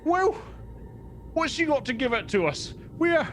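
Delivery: high-pitched haggling goblin; goblin leader. Acted. Goblin leader bargaining over the stolen sled, high goblin voice. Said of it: "But the leader goes".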